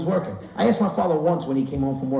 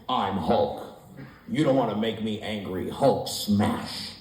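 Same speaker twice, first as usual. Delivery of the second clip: lightly voiced kid Hulk; 7 semitones lower, 4 dB quieter, slower than usual. Child playing Hulk.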